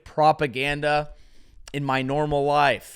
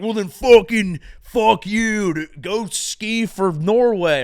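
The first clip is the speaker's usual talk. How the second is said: mock angry critics; 4 semitones higher, 4 dB louder than usual. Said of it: "then people were like".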